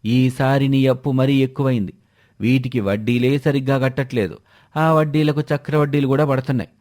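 harsh moneylender. Acted. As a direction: demand the debt with mild contempt. Moneylender berates debtor.

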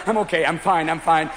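self-soothing. Acted. Driver calms himself after panic.

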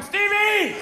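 W calling out. Retold or imitated. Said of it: "there's W going".

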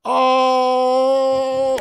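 a joyful stretched yell; ecstatic shout. Real, not acted. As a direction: cry out in delight at the donation. Excited donation call.

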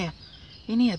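ordinary talk, nothing marked

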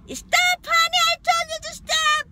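high shrieking plea to stop; panicked scream. Retold or imitated. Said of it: "He always do that to me".

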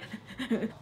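soft shuddering sob breaths; quiet mock sobbing; imitated crying. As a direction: act out crying gasps. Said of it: "I start crying".

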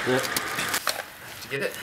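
soft slow whisper. Real, not acted. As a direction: hush it out, barely voiced. Hushed check after the shot.

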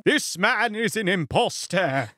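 slow, pointed accusation; a lightly voiced stern tutor; tutor's declaration. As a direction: denounce him gravely as the old tutor. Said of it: "That's what he said".

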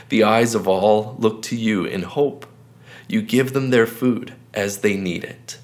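slow, measured reading with long pauses between verses; slow scripture reading. Acted. Pastor reads a psalm slowly to viewers for meditation, unhurried. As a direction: read each verse slowly and let it sink in. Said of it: "I'm gonna read it one more time".

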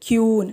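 ക്യൂൻ said as kyoon, no w sound; wrong old pronunciation. Shown as a demonstration. Teacher showing the learners' old kyoon. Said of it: "ഉച്ചരിച്ചിട്ടുണ്ടായിരുന്നത്".

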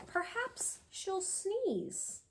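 slow, soft teasing refrain; slow hushed suspense line. Acted. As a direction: drop it down and draw it out for the kids. Refrain read slowly, softly.

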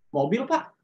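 reply with a cocky edge; mock-arrogant answer to an interviewer; snotty. Shown as a demonstration. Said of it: "kayak mukanya kayak sengak gitu".

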